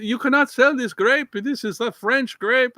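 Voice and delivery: high, loud mock outrage; indignant French. French growers object to Chile's grape, loud mock indignation. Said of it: "and they say".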